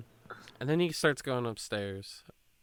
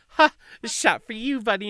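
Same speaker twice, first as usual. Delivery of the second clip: higher, louder boisterous offer; pushy drunk; 9 semitones higher, 4 dB louder than usual. Retold or imitated. Drunk guy forcing a shot on him, boisterous.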